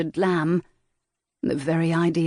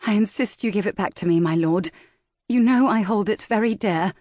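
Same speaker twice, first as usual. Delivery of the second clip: lightly voiced lady, insistent; 4 semitones higher, 3 dB louder than usual. Valentine demands her paper.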